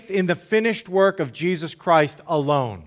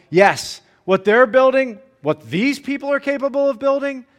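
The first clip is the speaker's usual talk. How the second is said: scoffing jab. Retold or imitated. Tobiah mocks the wall builders, a touch of scorn. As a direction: belittle the wall with a sneer. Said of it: "Tobiah follows up with".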